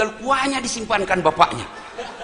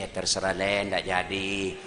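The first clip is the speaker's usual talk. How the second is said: meek surrender; 14 semitones lower, 8 dB quieter than usual. Acted. Husband backs down to wife.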